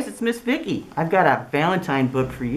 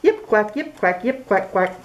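yip and quack duet; 6 semitones higher than usual. Acted. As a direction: alternate fox yips and duck quacks. Fox and duck together.

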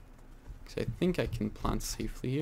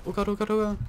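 shaky stammering panic; 9 semitones higher, much faster than usual. Real, not acted. Enemy closing in, panicking.

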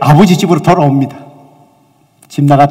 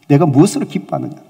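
normal talking voice

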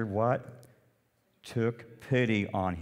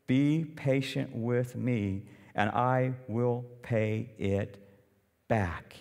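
begging servant; slower than usual. Acted. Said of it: "begged him".

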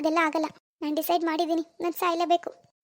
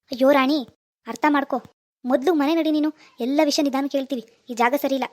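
urgent plea; 3 semitones lower than usual. Acted. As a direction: pull her back, raise your voice. Raj pleading with Rani.

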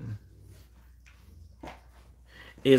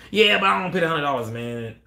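mock whiny caller; 5 semitones higher, 4 dB louder than usual. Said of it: "mock caller".

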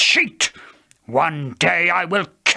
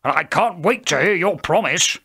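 loud, higher, eager son's voice; cheerful, eager; 5 semitones higher, 5 dB louder than usual. A narrator's reading. Esau eager to hear his father's promise, cheerful. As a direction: burst out with cheerful anticipation. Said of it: "he said cheerfully".

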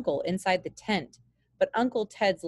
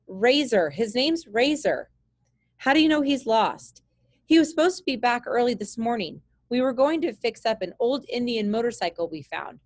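put-on anxious young boy, slightly higher; worried boy voice; 4 semitones higher than usual. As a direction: plead like a scared kid. Jake insists.

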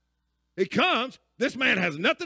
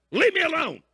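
irritated yell; 6 semitones higher than usual. Retold or imitated. Sleeper yelling at the neighbour through the shut door, annoyed. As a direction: snap at the pest to go away.

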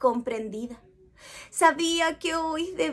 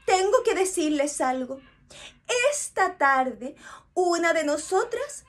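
slightly raised, earnest queen address; queen bee voice; 4 semitones higher than usual. Acted. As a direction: address the hive like a caring queen. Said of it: "Tuvo que hablar".

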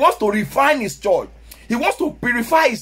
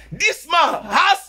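slow emphatic shout; 4 semitones higher, much slower than usual. Real, not acted. Praises pastor's free school.

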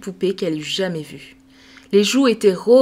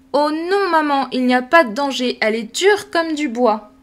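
put-on girl protesting; 5 semitones higher, 3 dB louder than usual. Sophie protests to mother.

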